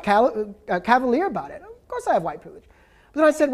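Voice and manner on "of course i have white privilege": nonchalant. Retold or imitated. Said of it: "he was very nonchalant".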